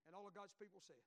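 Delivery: rally the room for the amen; call for amen. Real, not acted. Preacher calls all God's people to answer amen, loudly.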